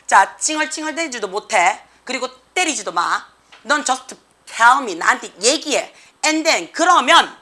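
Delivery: lightly voiced firm dad setting rules; firm father. Father forbidding his son to whine or hit, firmly. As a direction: imitate a father being firm, key words stressed. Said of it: "아빠가 단호하게 얘기를 했죠".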